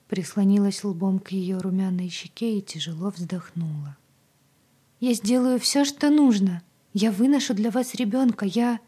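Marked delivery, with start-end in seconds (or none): 5.0-8.8 higher and louder, rushing to promise, then faltering; desperate eager vow. A narrator's reading. Agata vows to Zoe she will bear the child, higher and louder. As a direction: pour out the promise until the words catch. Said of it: "Она запнулась".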